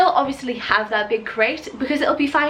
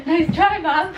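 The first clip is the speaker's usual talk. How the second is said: high puppy talk; 8 semitones higher, slower than usual. Pretend. Voicing the puppy.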